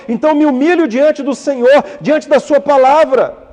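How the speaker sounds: building prayer. Shown as a demonstration. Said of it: "É você dizer assim".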